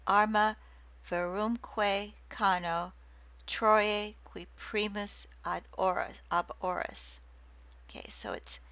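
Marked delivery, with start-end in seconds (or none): 0.1-7.2 Latin line with its beats brought out; Latin scansion reading. Shown as a demonstration. Lecturer reciting Virgil's Latin to students, beats marked. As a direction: chant the hexameter so the feet show. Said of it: "six feet".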